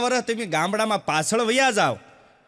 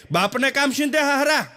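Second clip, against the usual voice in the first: high, indignant scolding father; angry father; 5 semitones higher than usual. Retold or imitated. Father scolds son for asking for water. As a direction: bark at the son for giving orders.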